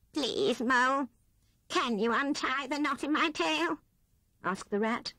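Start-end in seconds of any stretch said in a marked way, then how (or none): 0.1-3.8 higher, small, forlorn plea; tiny sad voice. Acted. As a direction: make yourself small and pitiful. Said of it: "in a tiny, sad little voice".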